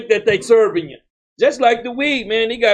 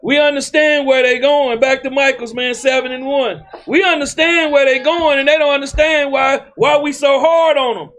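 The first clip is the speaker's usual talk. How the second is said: raised, higher-pitched insistent sermon delivery; impassioned preaching; 4 semitones higher than usual. Real, not acted. Preacher explaining the sinners' end to his congregation, impassioned. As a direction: drive it home to the congregation.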